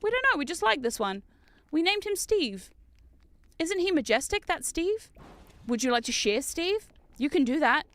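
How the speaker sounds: lightly voiced guide showing visitors round; mock tour guide. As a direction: present it like a tour, drawing out key phrases. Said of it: "They're like VTuber tours".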